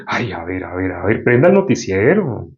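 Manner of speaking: lightly voiced Satan posing as reason; Satan's coaxing. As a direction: coax slowly, playing the tempting voice. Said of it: "Satanás disfrazado de tu lógica, te va a decir".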